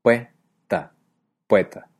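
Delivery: POETA said as PUE-TA, two syllables; diphthong. Shown as a demonstration. Teacher imitates speakers who say poeta with a diphthong. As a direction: glide O into E: pue, ta, then pueta. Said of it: "la dicen con dos sílabas".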